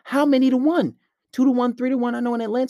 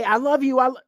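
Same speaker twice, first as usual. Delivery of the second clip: higher gushing lovesick voice; mock simp; 6 semitones higher than usual. Mocking a guy saying it to her daily, high gushing voice. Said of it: "Every day".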